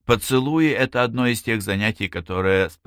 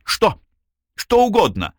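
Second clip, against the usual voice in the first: high, louder, eager burst; 13 semitones higher, 5 dB louder than usual. A narrator's reading. He answers her request for a favour, eagerly. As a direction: jump in high, offering anything.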